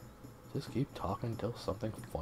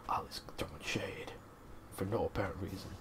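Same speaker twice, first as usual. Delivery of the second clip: whisper; 5 dB quieter than usual. Real, not acted. Whispered aside about character.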